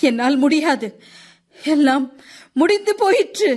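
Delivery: loud, high, rising anguished cry of agony. A man in pain, head thrown back, cries out beside his mother; shouting loudly. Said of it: "உரத்த குரலில் கத்தினான்".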